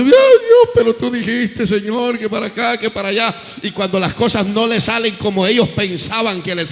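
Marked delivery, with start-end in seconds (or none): 0.0-3.3 mock whining. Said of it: "evangélicos chillones, hermanos, llorando".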